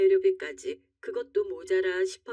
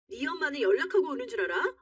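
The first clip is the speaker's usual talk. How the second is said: higher-pitched, indignant comeback; angry retort; 6 semitones higher than usual. Acted. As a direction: throw the accusation straight back. Wife retorts in quarrel.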